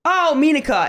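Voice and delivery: put-on high, loud old auntie greeting; elderly Dutch aunt. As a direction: call out like an eager old aunt. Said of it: "an elderly Dutch aunt would be like".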